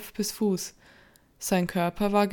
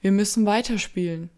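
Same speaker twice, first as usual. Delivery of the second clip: shaky voice; 5 dB louder than usual. Acted. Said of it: "Mit zitternder Stimme".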